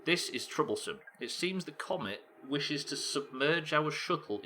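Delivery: measured, formal reading aloud; game dialogue narration. Acted. Explorers debating a freezing shuttle on the comet, measured read. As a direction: read out the explorers' careful deliberation.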